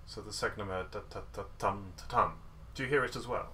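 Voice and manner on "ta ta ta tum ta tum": rhythmic "ta, ta, ta, TUM, ta, TUM"; two accents. Shown as a demonstration. Teacher replaying what was heard, accents on both "tum"s. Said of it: "I did hear two accents".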